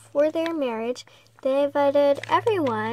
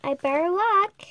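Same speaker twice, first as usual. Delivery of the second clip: whisper; 4 semitones higher than usual. Acted. Girl whispering to herself.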